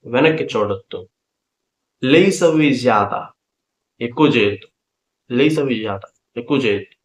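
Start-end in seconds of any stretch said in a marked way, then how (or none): 2.0-3.2 slow, stretched teaching pronunciation; drawn-out demonstration; slow model. Shown as a demonstration. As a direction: sound it out slowly for learners. Teacher models phrase slowly first.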